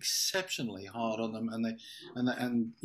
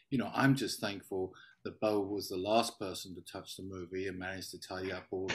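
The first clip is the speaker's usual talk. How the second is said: dry mock gratitude; deadpan fake praise for a colleague; sarcastic; 2 semitones lower, 4 dB quieter than usual. Real, not acted. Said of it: "appropriately sarcastic".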